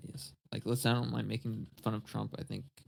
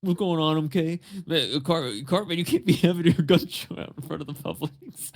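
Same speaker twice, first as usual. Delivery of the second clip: louder, higher cartoon scolding voice; Mister Mackey; 5 semitones higher, 9 dB louder than usual. Store worker confronting Cartman about his gun show, cartoon impression. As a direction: put on an animated staffer, amused underneath. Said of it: "Mister Mackey is working at Publix now".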